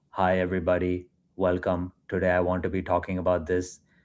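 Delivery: low, flat, lifeless, robotic monotone. Illustrating the classic definition of a monotone speaker, flat robotic monotone. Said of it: "It's almost like someone who sounds robotic, someone who always sounds low energy".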